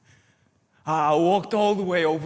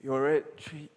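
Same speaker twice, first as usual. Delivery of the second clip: angry dressing down; 5 semitones lower, 4 dB quieter than usual. Acted. Confronting Treat, low and firm.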